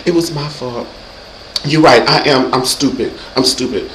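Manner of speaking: soft, submissive mock apology; acted meekness. Placates angry man by acting, meek soft self-blame. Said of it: "You gotta do a little acting these days".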